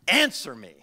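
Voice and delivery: "Answer" hit hard, then dropping on "me"; very emphatic. Retold or imitated. Jesus demanding a reply from his questioners, emphatic. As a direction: demand it with a firm punch on "Answer". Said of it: "in the Greek, this is very emphatic".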